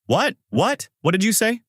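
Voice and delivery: high-pitched, rising disbelief; incredulous outrage. A narrator's reading. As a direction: demand an explanation, pitch leaping up. Angry manager hears the admission.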